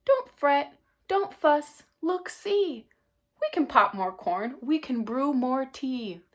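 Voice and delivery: a hint of a fussing mouse; squeaky mouse. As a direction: chirp it out like a busy little mouse. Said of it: "So Mouse squeaks".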